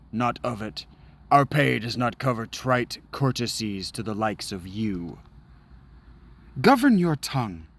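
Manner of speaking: lightly acted haughty knight voices; a hint of a stern knight; knight and sellsword quarrel. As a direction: trade barbs with courtly disdain. Voices knight and mercenary exchange.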